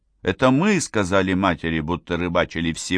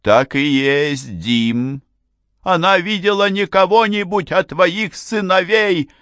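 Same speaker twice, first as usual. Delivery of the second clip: higher, louder, emphatic wife's voice; mother's high answer; 11 semitones higher, 4 dB louder than usual. A narrator's reading. Mother insisting to father about the boys, high and loud. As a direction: press the point shrilly home. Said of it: "ответила мать по-английски".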